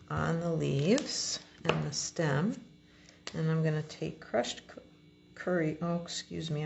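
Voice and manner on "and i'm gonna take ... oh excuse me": talking through hiccups; words broken by hiccups. Real, not acted. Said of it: "I've got the hiccups".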